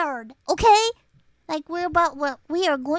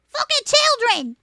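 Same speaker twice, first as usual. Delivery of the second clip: disgusted aside; 7 semitones higher than usual. Real, not acted. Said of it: "repeated line".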